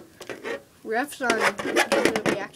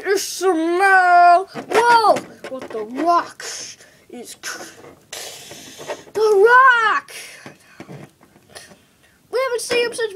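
shouting play-by-play, much higher and louder; excited wrestling commentator; 7 semitones higher, 7 dB louder than usual. Pretend. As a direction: yell the calls like a ringside announcer. Commentary at match climax.

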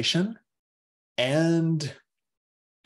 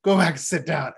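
dismissive teacher; 5 semitones higher, 3 dB louder than usual. Retold or imitated. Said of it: "the teacher will be like".

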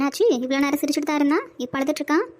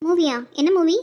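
excited surprise; 4 semitones higher, 5 dB louder than usual. Acted. Wife surprised by movie offer.

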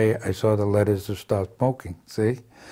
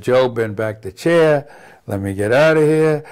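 urgent outburst; 3 semitones higher, 6 dB louder than usual. Retold or imitated. Man begging a friend to let him out, loud and urgent. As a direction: push to escape. Fleeing the prayer scene.

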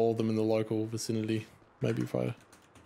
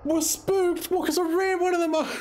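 laughing; slower than usual. Real, not acted. Laughing at police chase.

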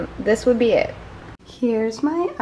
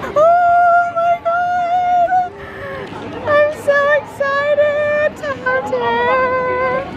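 excited squeal; much slower than usual. Real, not acted. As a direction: squeal it out like you might cry from happiness. Seeing Tower of Terror, near tears.

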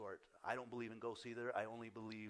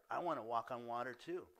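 eager, louder declaration; louder, with a touch of eagerness; acted excitement; 6 dB louder than usual. Peter wanting to walk on water too, mildly excited. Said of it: "there's an excitement there on his part".

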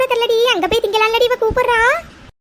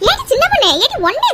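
impatient call, pitched up to carry; 5 semitones higher than usual. Acted. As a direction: shout her name up high a second time. Calling her again, louder.

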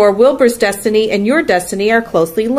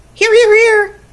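very high, loud, rapid triple answer; honking gander; 6 dB louder than usual. A narrator's reading. Gander answers Charlotte's roll call, high loud honking. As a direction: honk it out like a gander. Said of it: "said the gander".

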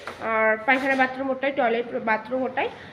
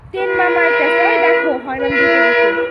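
calling out; 2 semitones higher, 9 dB louder than usual. Real, not acted. Calling out over arriving train.

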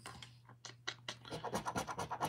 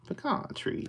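whisper; 6 dB quieter than usual. Real, not acted. Hushed reading of symbols.

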